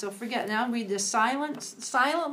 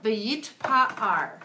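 syllable by syllable; 7 dB louder than usual. Shown as a demonstration. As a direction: split into syllables, slow and loud. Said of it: "Go syllable by syllable".

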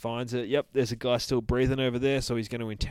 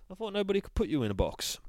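quoting Mighty Boosh; 10 semitones higher, faster than usual. Retold or imitated. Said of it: "The green fucking cockney".

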